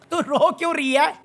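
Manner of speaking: chuckling "रो क्यों रही है"; laughing question. Real, not acted. Vlogger laughing at the crying contestant, amused question.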